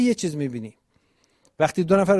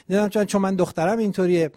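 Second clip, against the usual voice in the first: put-on quoting the girl; 4 semitones higher, faster than usual. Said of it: "گفت یعنی چه فلان".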